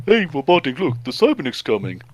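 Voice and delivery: a hint of a panicky henchman shouting the alarm; trooper voice. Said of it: "one of the troopers is like".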